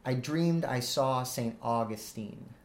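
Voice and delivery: slow line, stress on "dreamed", "saw", "Saint"; measured iambic beat on "I dreamed I saw Saint Augustine". Shown as a demonstration. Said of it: "so unstressed, stressed syllables".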